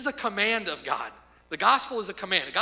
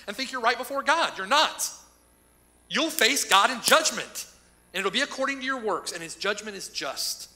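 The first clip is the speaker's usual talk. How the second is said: stern warning; 5 semitones higher, 5 dB louder than usual. Real, not acted. Preacher warning of judgment.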